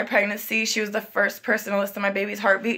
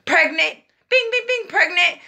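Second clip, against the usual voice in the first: test result chime; 8 semitones higher than usual. Retold or imitated. Test result announcing itself.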